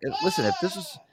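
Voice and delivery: a hint of a high, crying whine; mock whiny plea. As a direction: whimper it like a hurt kid. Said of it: "I'm like".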